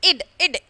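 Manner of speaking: ഇഡ് as a short "id" syllable; two separate ഇഡ് sounds, short vowel then D. Shown as a demonstration. Teacher isolates the ending for students, ഇഡ് said as "id". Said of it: "ഇഡ് എന്നുള്ള രീതിയിലായിരിക്കും".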